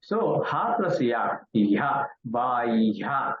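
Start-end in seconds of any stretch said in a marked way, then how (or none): 2.3-3.3 "bahya" with the h sounded ahead of the y; stretched "bahya", h before y; correct "bahya". Shown as a demonstration. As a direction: say "bahya" drawn out as ba-ih-ya. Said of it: "it is bahya".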